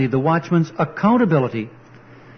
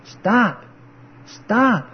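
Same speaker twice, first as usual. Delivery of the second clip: pretend warning shout; 5 semitones higher than usual. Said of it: "waving our hands and shouting".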